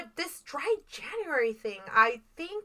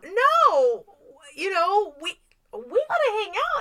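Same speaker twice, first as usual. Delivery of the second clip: quoting friend; 7 semitones higher, 4 dB louder than usual. Retold or imitated.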